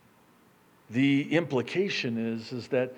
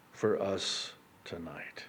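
whisper; 5 semitones lower, 8 dB quieter, slower than usual. Real, not acted. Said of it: "drops to a whisper".

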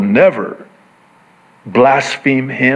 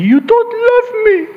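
mom voice. Retold or imitated. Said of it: "she would say to me".

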